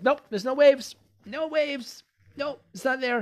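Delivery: high, loud, hammed-up insistence that nothing is there; mock denial. A client's resisting mind mocked, loud and high in denial. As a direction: play the stubborn mind, pushing loudly against reality.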